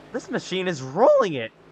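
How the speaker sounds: breaking, cracking commentator voice, cracking mid-line. Commentator calling a race lap, voice cracking mid-sentence. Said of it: "Another voice crack".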